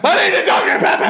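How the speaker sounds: frantic whispered shout; mock panicked shout. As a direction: panic in a hushed yell. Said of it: "fucking freaking out".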